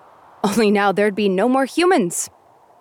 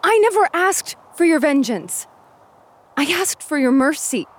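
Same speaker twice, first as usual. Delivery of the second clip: heated retort; 8 semitones higher than usual. Acted. Angry retort in quarrel.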